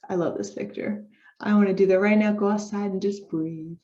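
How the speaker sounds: normal talking voice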